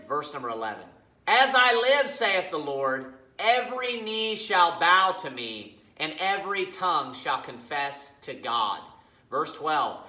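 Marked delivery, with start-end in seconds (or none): 1.3-8.8 slow, emphatic Bible reading; scripture reading. Acted. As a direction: read scripture deliberately, weighting each phrase. Reads scripture aloud.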